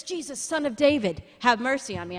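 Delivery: moderately loud retold plea; crying out. Blind man calling to Jesus, crying out. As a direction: imitate a cry for mercy, briskly. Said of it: "he starts to cry out".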